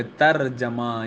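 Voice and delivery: ترجمہ as "tarjama", with rolled r; correct pronunciation. Shown as a demonstration. Teacher giving the intended form, correct pronunciation. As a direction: say ترجمہ as "tar-ja-ma". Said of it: "مراد یہاں پر ہے".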